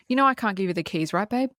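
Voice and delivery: quick deadpan line, lifting at the end. Retold or imitated. Girlfriend revealing she had the keys, deadpan. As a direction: toss it off coolly, imitating her. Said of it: "she just goes fucking deadpan".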